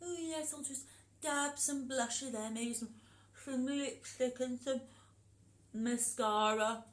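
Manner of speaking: lightly voiced fussy granny; a wolf prettying himself up; wolf as grandma. Shown as a demonstration. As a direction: dab on makeup like an old lady. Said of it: "how would the wolf pretend".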